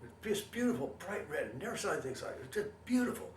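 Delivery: high, wonder-struck; awed. Retold or imitated. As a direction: marvel at it like a firework. Awed memory of the flame.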